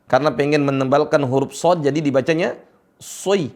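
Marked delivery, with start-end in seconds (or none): 3.0-3.5 "soi" with rounded o gliding to i; over-thicken the s into "soi"; common mistake. Shown as a demonstration. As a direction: demo the mistaken diphthong in "soi".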